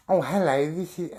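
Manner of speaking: lightly put-on caller voice; Wayne. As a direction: do a light impression of the phone troll. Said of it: "That was my impression".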